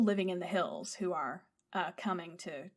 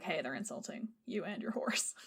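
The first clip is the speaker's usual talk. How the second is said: hushed, unvoiced warning whisper; a translator's whispered warning; 1 whispered aside; 2 semitones lower, 8 dB quieter than usual. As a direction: lean in and whisper it. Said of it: "it's like".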